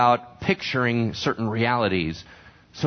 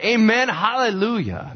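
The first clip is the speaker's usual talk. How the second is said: fervent amen; 9 semitones higher than usual. Real, not acted. Preacher closing a point.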